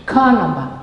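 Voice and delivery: usual speaking voice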